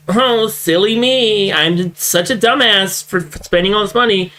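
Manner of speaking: lightly voiced faux-humble streamer; mock self-deprecating. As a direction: mimic a fake-modest rich guy. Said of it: "Why are you doing this like".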